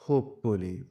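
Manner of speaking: হোপফুলি with weight on হোপ; stress on হোপ. Shown as a demonstration. Teacher modelling capital-letter stress, হোপ stressed in হোপফুলি. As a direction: lean on the first syllable হোপ in হোপফুলি. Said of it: "এগুলো জোর দিয়ে পড়তে হবে".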